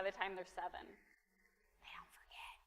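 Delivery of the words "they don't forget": quiet, breathy aside; hushed warning. Acted. Pastor warning parents that kids remember, hushed. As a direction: drop it down low as a knowing warning. Repeating point to congregation, hushed.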